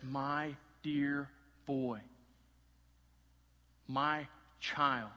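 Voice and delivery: slow, gentle endearment; tender father. Retold or imitated. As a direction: speak with love, no reproof. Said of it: "There is no reproof. There is no anger".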